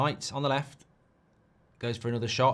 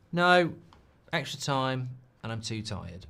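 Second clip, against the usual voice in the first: mock curt reply; snappy reading. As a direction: read it curtly, as wife would take it. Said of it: "She'll read it like".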